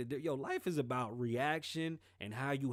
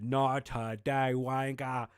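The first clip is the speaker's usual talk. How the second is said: defiant retort; 7 dB louder, much slower than usual. Retold or imitated. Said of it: "he said".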